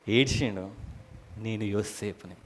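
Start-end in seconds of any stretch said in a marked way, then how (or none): 1.4-2.3 soft, low reveal; hushed confession. Acted. Joseph revealing himself to his brothers, hushed. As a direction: drop your voice to confess who you are.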